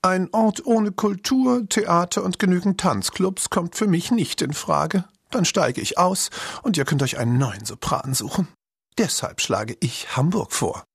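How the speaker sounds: a spoiled cat demanding culture; haughty diva cat. A narrator's reading. Cat insists to the band on Hamburg.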